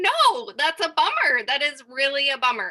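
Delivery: emphatic, insistent tone.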